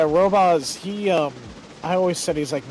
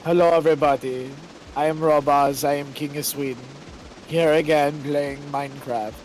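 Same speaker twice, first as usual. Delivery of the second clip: flat droning YouTuber voice; monotone voice. Retold or imitated. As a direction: read it in one dead level tone. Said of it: "he would have this monotone voice".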